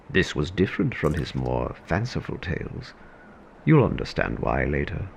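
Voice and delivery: measured storyteller voice; story narration. A narrator's reading. Narrator setting the scene for the audience, in a storyteller voice. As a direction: tell the tale to the listener. Narrator reads the audio drama.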